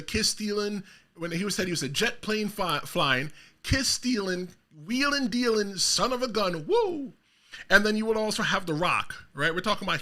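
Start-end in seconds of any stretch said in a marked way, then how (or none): 0.0-7.1 Ric Flair promo. Retold or imitated.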